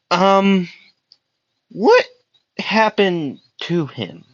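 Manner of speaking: high voice with a hint of crazed politeness; crazed, smiling woman. Kushina asks Aizawa what happened to him, lightly crazed. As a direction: ask it high and drawn out, through a big smile. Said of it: "a crazy look in her eye".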